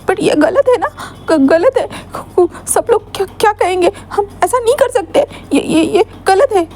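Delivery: tearful refusal. Acted. Wing refuses, still tearful.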